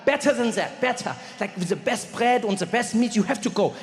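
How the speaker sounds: a hint of German, insistent nein; light German accent. German friend explaining the sandwich chain, light German accent. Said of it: "He's like".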